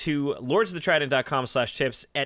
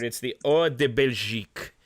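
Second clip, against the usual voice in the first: lightly put-on French accent, lower; a hint of a French accent; mock French accent; 4 semitones lower than usual. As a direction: say the beer name like a Frenchman. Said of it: "I don't know what accent I'm doing currently".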